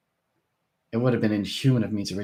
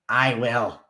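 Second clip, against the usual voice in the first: booming; 3 semitones higher, 5 dB louder than usual. A narrator's reading. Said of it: "Harkett boomed".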